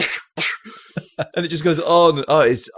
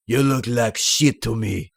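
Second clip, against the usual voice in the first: laughing through quote. Retold or imitated. Quoting the film's comeback.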